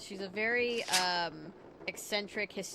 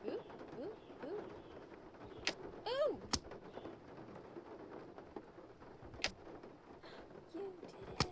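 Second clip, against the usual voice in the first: excited; 12 semitones higher, 8 dB quieter, much slower than usual. Real, not acted. Puzzle solved in the game.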